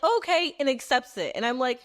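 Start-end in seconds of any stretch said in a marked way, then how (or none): 0.0-0.5 high, breezy acceptance; imitating people shrugging it off; casual okay. Everyone just accepting the news, a high breezy okay. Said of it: "Everyone's just like".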